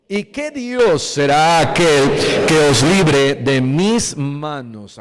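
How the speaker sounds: loud, booming royal threat, slowing at the end; king's furious threat. Acted. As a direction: thunder it out like a tyrant king. Preacher voices king's furnace threat.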